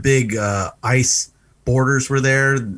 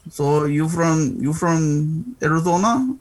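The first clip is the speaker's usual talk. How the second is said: slow, drawn-out questioning with a lightly put-on accent; a hint of a border agent sizing him up; 4 semitones higher, slower than usual. Retelling the checkpoint agent's slow question, lightly put on.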